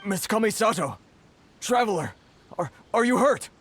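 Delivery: worried calling. Acted. Worried merchant rushes over.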